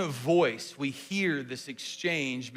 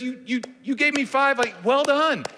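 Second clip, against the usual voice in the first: celebrating; 7 semitones higher, 4 dB louder than usual. Shown as a demonstration. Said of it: "he's celebrating with him".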